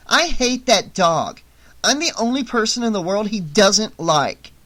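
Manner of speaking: panting out the words; breathless after the struggle; out of breath. A narrator's reading.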